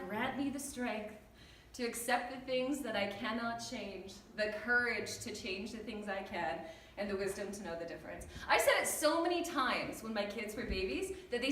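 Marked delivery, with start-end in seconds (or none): 0.1-6.6 reciting a prayer. Retold or imitated. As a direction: recite it like a weary mother's prayer. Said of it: "I said the Serenity Prayer".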